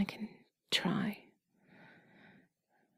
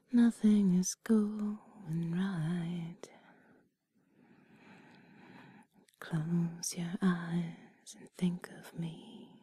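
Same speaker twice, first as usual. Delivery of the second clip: slow whispered lyrics; much slower than usual. Acted. Whispers song lyrics slowly.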